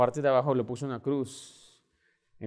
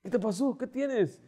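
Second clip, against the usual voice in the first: tender; 9 semitones higher than usual. Retold or imitated. Father comforting crying son.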